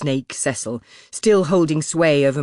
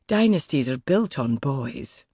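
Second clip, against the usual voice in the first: smarmy; slower than usual. Acted. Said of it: "Erskine smarmed".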